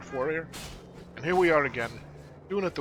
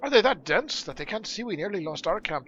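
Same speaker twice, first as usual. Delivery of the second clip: lightly voiced dwarf, mildly put out; indignant dwarf; 4 semitones higher, 4 dB louder than usual. Dwarf rejecting blame for the earthquake, mildly indignant. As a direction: protest as a slightly affronted dwarf.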